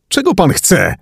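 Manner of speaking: very high, frantic question; high-pitched panicked demand; screamed demand. A narrator's reading. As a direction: shriek it at the driver, without full volume. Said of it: "wrzasnęła T J".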